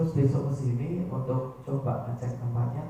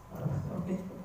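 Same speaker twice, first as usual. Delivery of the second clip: breathless weepy whispered hello, higher; mock crying phone greeting; mock tearful; 7 semitones higher, 6 dB quieter than usual. Shown as a demonstration. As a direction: greet as if you've just been crying. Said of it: "Kalau ketika panjenengan nangis".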